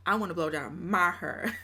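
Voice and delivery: put-on a touch of Texas accent on "wanna"; lightly country Texas accent. Reworking the clip line in a mild Texas accent. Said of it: "I wanna hear that Texas accent".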